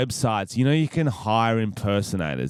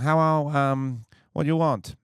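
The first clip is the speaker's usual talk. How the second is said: imitated Asian accent; 4 semitones higher than usual. Agency lady answering the phone, imitated Asian accent. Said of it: "'cause that was how she spoke".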